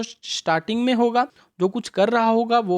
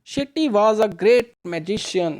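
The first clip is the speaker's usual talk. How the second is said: slow read-aloud; much slower than usual. Shown as a demonstration. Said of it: "reads sentence slowly".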